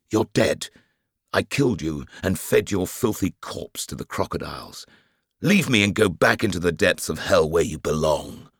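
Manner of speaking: high, rushed, frantic pleading; hysterical gabbling. A narrator's reading. Hector ordering the dead man back to hell, hysterical. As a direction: babble it out half-mad with fear. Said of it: "He was gabbling hysterical nonsense".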